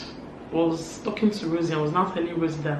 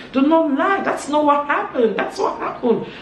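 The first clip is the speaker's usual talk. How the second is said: high, loud accusing shout, easing off; 8 semitones higher, 4 dB louder than usual. Retold or imitated. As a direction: re-enact a shouted denial. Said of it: "that was how they started shouting".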